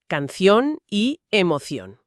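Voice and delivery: "canción y emoción" said slowly, rhyme endings -ción drawn out; slow demo of the rhyme "canción y emoción"; careful example. Shown as a demonstration. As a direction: spell out "canción" and "emoción" so the shared ending rings. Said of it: "El ejemplo típico".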